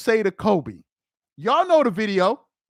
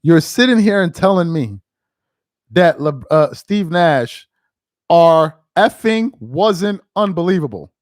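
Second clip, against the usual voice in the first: mock quote of the athlete; 5 semitones lower, 6 dB louder than usual. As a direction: parody his fumbled sentence. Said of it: "Your man said".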